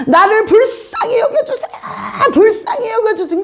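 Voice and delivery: high pleading voice with a laugh in it; blind man's plea. Retold or imitated. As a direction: beg like the blind man Bartimaeus. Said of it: "계속 한 말만 반복하니까".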